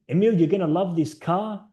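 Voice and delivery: lightly imitated German accent; a hint of the German car dealer. German dealer pitching his car to a buyer, light German accent. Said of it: "He said it in his German accent".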